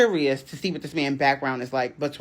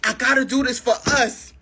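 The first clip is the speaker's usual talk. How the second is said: higher, earnest pleading voice; pleading boyfriend; 8 semitones higher than usual. Retold or imitated. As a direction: sell her the dream, begging. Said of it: "So he like".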